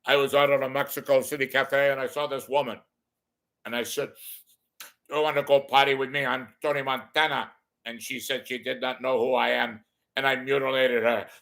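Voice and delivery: lightly voiced Tony Montana accent; Scarface impression. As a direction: tell it as Scarface in Mexico. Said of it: "What if Scarface was a stand-up comedian in Mexico?".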